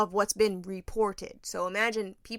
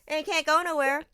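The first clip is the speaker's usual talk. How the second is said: laughing; 7 semitones higher, 7 dB louder than usual. Real, not acted. Laughing through her own complaint.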